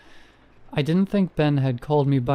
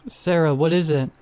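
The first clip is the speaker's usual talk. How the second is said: raised, urgent call into a pit; 3 semitones higher than usual. Acted. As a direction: shout down to her, worried. Calling down into the pit.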